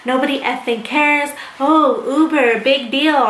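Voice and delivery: retold scornful griping, stretched out toward the end; mock trash talk. Friend griping on the way to the Uber, retold dismissively. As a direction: imitate her dismissive complaining. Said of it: "she's talking crap".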